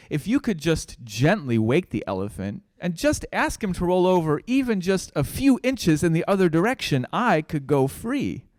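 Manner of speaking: a small mouse asking politely. Acted. Mouse pleads with the elephant plan.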